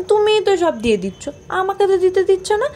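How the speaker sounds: put-on high, childish protest to mom; whiny complaint. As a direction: pout like a left-out kid. Retelling complaint to mother. (ঘ্যানঘ্যানে নালিশ)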